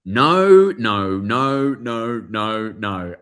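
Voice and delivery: a row of firm noes, dropping off; emphatic no. Retold or imitated. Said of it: "she was just like".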